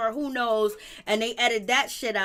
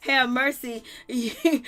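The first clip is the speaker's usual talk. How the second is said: laughing while scolding; 4 dB louder than usual. Retold or imitated. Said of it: "I was like".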